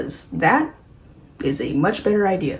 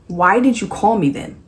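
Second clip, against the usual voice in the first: exasperated, higher-pitched complaint; frustrated; 4 semitones higher, 5 dB louder than usual. Acted. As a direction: demand it in mock frustration. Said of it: "not as frustrated by this as I am".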